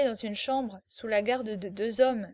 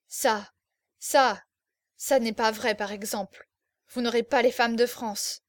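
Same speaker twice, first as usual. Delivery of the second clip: choked with anger; 3 dB louder than usual. Acted. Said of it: "balbutia d'une voix étranglée de colère".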